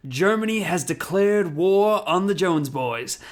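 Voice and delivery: slow, lightly voiced Nazi proclamation; a hint of a movie villain, slowly declaring; Nazi character. Quoting a Nazi's line to co-host, slow mock proclamation. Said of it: "one of the Nazis goes".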